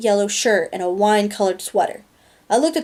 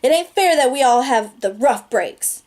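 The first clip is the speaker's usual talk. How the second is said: pitched up, pleading; passionate cry; 4 semitones higher than usual. Acted. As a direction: cry out against the rough breaks. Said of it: "I cried passionately".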